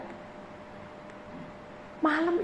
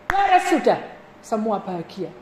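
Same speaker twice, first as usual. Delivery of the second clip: triumphant; 2 semitones higher, 10 dB louder than usual. Real, not acted. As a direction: announce the victory. Triumphant end of story.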